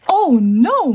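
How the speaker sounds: high, swooping oh no; dismayed cry. Acted. Mommy Shark sees her pencil shrink, dismayed cry. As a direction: play up the storybook alarm. The spell goes wrong.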